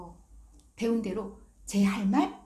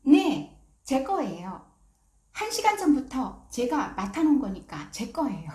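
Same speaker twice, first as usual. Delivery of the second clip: put-on firm child; 3 semitones higher, 4 dB louder than usual. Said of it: "눈을 똑바로 든 채".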